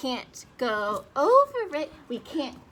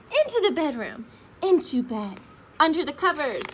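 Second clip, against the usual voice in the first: pretend panic; 2 semitones higher, 6 dB louder than usual. Running home from the bear.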